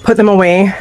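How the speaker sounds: slightly winded, short of breath. Real, not acted. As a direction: talk while catching your breath. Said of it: "I'm a little bit winded".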